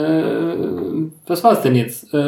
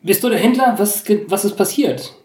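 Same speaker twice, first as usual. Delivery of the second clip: concerned pony hero; 6 semitones higher than usual. Acted. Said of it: "frage dann gleich".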